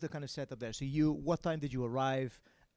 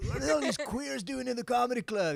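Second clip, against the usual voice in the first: high, loud mock Welsh accent; a put-on Welsh accent, mocking; 10 semitones higher, 5 dB louder than usual. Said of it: "that's my Welsh accent".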